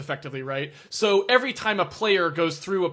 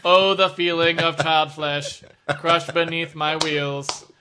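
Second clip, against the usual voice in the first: gloating villain robot; 6 dB louder, slower than usual. Pretend. Voicing robot relishing crushing.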